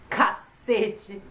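CACETE a little firmer, falling tune; intonation demo. Shown as a demonstration. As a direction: say "cacete" with weight, pitch kept down. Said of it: "Vem várias entonações".

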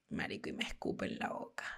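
whispered, disbelieving punchline; hushed reveal. Retold or imitated. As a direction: drop to a whisper for the shock. Dramatic reveal of being spat on.

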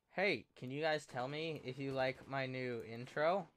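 normal talking voice

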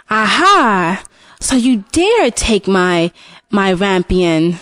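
a lightly voiced witch, slow and pouncing; witch exclaiming. Witch catching the husband in her garden, lightly voiced and slow. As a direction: catch him in the act, drawn out. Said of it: "the witch exclaimed".

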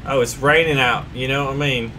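put-on British accent. Trying a British accent on his squad as agreed, lightly. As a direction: play a cheery Brit, just a little. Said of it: "talk in a British accent".

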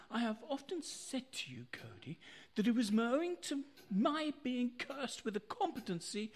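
rueful whisper. Acted. Confessing his failure.

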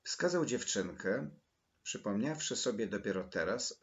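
plain reading voice

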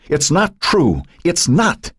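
high, frantic protest; desperate high-pitched outburst; screamed denial. A narrator's reading. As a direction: cry it out high, without full volume. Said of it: "she screamed".

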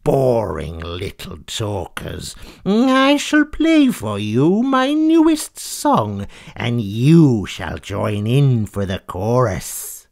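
slow, grand announcement; a hint of a vain diva; lightly voiced haughty cat. Fleecy scorns the animals, slow and grand.

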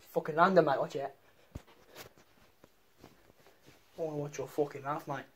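mock Cockney geezer threat; lightly done Cockney accent. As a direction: mumble a knife threat like a Cockney thug.

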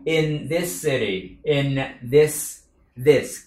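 slow drill of this; th sound drill. Shown as a demonstration. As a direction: linger on the th in this. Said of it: "Nói là the".

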